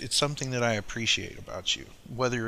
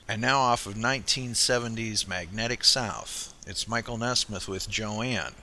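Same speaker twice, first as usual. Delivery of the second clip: measured song introduction with chart facts; radio announcer. Real, not acted. Host introducing Joanne by Michael Nesmith, radio announcer. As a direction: present the record like a radio DJ.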